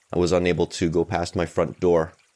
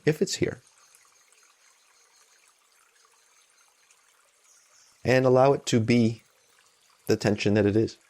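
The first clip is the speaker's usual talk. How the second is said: calm, even meditation guide with long pauses; unhurried guidance, leaving room between phrases; guided meditation. Real, not acted. Meditation teacher easing listeners into noticing tension and support, calm guided meditation.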